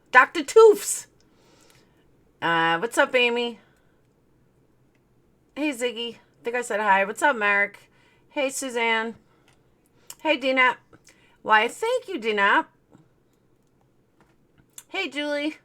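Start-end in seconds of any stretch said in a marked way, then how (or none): 0.1-1.1 loud, high greeting shout; playful shout. Acted. Calling out a viewer's name. 11.4-12.7 mock flattered. Mock flattered thanks to viewer.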